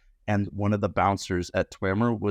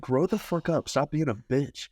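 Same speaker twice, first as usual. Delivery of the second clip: scornful telling-off; 7 semitones higher than usual. Retold or imitated. Telling off rude customer.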